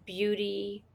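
put-on a light New Jersey accent, recalling the character. Actress recalling her character in a light Jersey accent. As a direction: ease into a mild Jersey accent. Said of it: "You're kinda doing, like, a Jersey accent".

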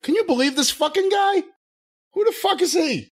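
high-pitched incredulous griping; mock indignation. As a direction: play an outraged caller venting to a fellow rocker. Imagined indignant phone call.

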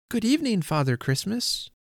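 bold cry. A narrator's reading. Child boldly greeting Father Christmas, high cry. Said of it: "I was bold enough to cry".

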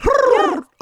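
horse impression. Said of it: "Oh, that's my horse impression".

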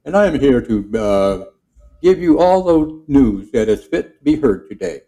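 lightly voiced newscaster; newsman voice. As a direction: sign off the broadcast like a radio host. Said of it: "And this is Ned the newsman".

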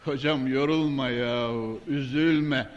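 dismissive low mutter; quietly mocking a scoffer; low, soft mock scoff.

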